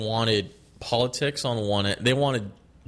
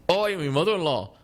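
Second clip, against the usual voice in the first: put-on higher, laughing British accent of an old-school comic; mock British comic; 5 semitones higher than usual. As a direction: imitate a mother-in-law joke comic, British. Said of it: "a comedian that was like".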